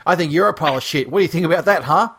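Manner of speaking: mock outrage with a challenging quick push; retold angry rant. Fan having a go at him over an album opinion, mock apeshit. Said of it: "this guy went fucking apeshit".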